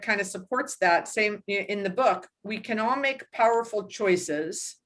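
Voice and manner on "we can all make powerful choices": slow, measured reading of a quote. Acted. Host reading a book quote to the listener, slow measured reading. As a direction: lay each word down slowly, like wisdom.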